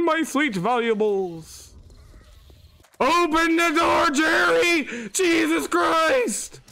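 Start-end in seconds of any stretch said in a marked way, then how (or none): 3.0-6.6 desperate shouting. Real, not acted. Begging at locked door.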